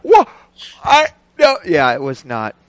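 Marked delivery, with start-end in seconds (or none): 0.0-1.6 retold disbelief. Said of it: "I was like".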